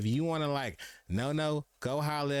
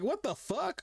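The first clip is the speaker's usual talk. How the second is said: high-pitched stunned what the fuck; shocked disbelief; slower than usual. Retold or imitated. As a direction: react like you can't believe the number. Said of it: "They're like".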